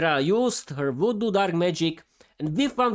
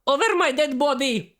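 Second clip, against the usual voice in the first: mild shout; 8 semitones higher than usual. Acted. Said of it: "Miroslava screamed".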